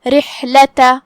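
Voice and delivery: رحلتا with a thin, light r and clear ha from mid-throat; رحلتا with tarqeeq. Shown as a demonstration. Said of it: "ہم را کو ہلکی آواز میں پڑھیں گے".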